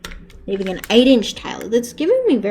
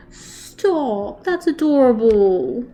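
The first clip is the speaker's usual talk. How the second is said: gushing over cuteness; 3 dB louder, much slower than usual. Real, not acted. Reacting to puppy photo.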